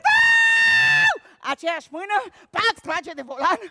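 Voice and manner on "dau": a sudden high, very loud yell; shout. Retold or imitated. Ghost in the taxi screams at the roundabout, piercing shout. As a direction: bellow the word like a panicked cry. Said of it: "acela strigă".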